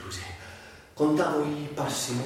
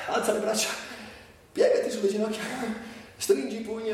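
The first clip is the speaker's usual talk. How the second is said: higher, clear instructor's call of "Alza le braccia"; firm commands; 8 semitones higher, faster than usual. Acted. A physiotherapist drills the patient, higher and firm. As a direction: bark "stringi i pugni" like a physio coaching.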